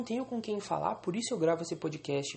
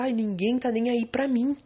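mock spoiled whine; 2 semitones higher, 6 dB louder, slower than usual. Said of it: "Ela só olha e pensa".

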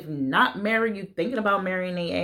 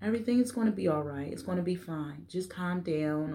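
calm soothing; 6 dB quieter than usual. Pretend. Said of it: "They might just tell you".

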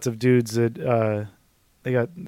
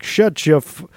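put-on fading Southern accent; 4 semitones higher, 6 dB louder, slower than usual. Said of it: "I already lost the accent".

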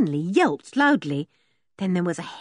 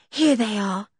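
put-on mildly relieved girl's voice; a touch of thankfulness; thankful; 3 semitones higher than usual. A narrator's reading. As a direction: announce it with relief. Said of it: "said George thankfully".

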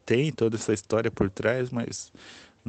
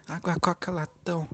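Rio vendor call; 7 semitones higher, 5 dB quieter than usual. Retold or imitated. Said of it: "sotaque de carioca".

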